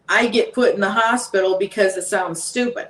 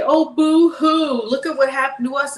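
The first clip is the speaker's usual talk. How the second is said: hammed-up pity for those who ignored her; mock whining; 4 semitones higher than usual. Mocking people who ignored warnings.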